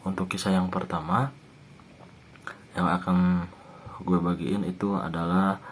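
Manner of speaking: talking while smoking; cigarette in mouth. Real, not acted. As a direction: speak around a cigarette. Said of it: "gue sambil ngerokok biar nggak grogi".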